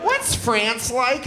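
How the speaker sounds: put-on high, slow ditzy girl voice; valley girl voice. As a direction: drawl it like a bored rich girl. Mimicking young girls.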